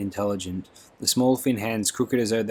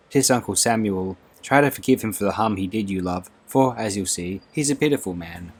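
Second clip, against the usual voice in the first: lightly voiced fussing Scots maid, a bit louder; 3 dB louder than usual. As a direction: fret gently over the girl's health in a Scots lilt. Dovey voiced in the story.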